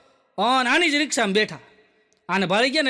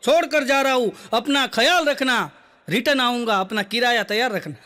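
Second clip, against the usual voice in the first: filmy rickshaw slogan. Retold or imitated. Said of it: "જોજો".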